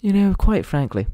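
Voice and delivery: high-pitched middle-class English imitation; proper English accent. Shown as a demonstration. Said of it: "that proper English kind of".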